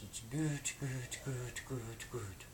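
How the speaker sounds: "goot" said quickly over and over, short clipped k-like start, pitch starting high then falling; spoken goot syllables. Shown as a demonstration. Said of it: "it's pretty much just consecutive goots".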